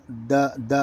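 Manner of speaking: short د, tongue touching behind the front teeth. Shown as a demonstration. Teacher showing where the tongue goes, short dental د. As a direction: tap د out briefly from behind the teeth. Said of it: "دانتوں کے پیچھے اپنی زبان کو لگائیں".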